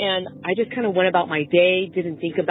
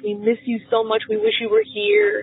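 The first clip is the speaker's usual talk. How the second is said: rising, pleading, near tears; tearful pleading to dad; 2 semitones higher than usual. Retold or imitated. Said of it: "I just kept saying".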